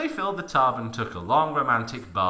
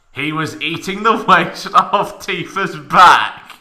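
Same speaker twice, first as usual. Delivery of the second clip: breaking up with laughter, slow and loud; laughing while reading; 6 semitones higher, 11 dB louder, slower than usual. Real, not acted. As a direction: fight through the laughs. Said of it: "reader breaks up reading".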